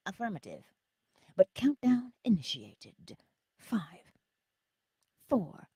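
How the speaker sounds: measured automated countdown announcement; computer voice. Acted. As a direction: play the ship's computer, deliberately paced. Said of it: "do it in your computer voice".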